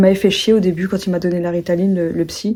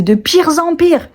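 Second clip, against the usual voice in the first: slow, high mock wail of mom; mother's exclamation; 8 semitones higher, 3 dB louder, slower than usual. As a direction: imitate mom's dramatic lament. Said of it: "elle disait".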